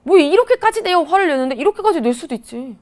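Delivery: 살짝 답답한 듯한 반박; 화내는 학생에게 가볍게 항변하듯; 가벼운 항변. Acted. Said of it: "막 화를 내". (약간 억울한 듯 되받기)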